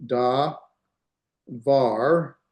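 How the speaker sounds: "da" then "var", each said alone with a pause between; syllable by syllable. Shown as a demonstration. Teacher sounding out a Hebrew word for students, syllable by syllable. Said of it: "This is the da".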